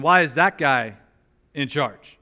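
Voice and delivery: a bit of a petulant gripe; mock jealous complaint. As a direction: huff it out like a sulking sibling. Jealous siblings complain about Moses.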